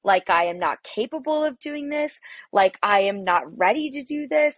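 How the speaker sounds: half-acted fury at her husband, pitch climbing; wife reliving yelling at her husband, mildly heated; retold angry outburst. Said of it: "And I'm screaming at him".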